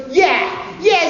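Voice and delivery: high, loud incredulous laughing yell; mocking shout. The wrangler scoffs at the actor's belief, high and loud.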